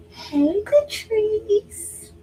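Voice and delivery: high bright mock-excited hello; happy phone greeting. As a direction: greet like you're thrilled they called. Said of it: "answers the phone like that".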